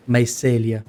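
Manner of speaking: "Mycelia" as my-SELL-ia, short e in the middle; corrected pronunciation. Shown as a demonstration. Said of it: "you pronounce it mycelia".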